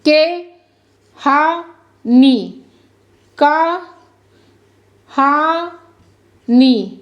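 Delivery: के हा नी spelled out with long pauses between syllables. Shown as a demonstration. Teacher sounding out a word letter by letter. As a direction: sound out का हा नी one beat at a time. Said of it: "अब पढ़े का हा नी".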